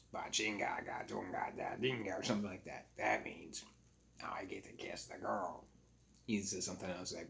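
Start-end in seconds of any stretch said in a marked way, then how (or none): 0.1-2.2 mock fisherman's Latin. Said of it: "do you know fisherman's Latin". 4.2-5.7 whisper. Retold or imitated. Translating the secret phrase.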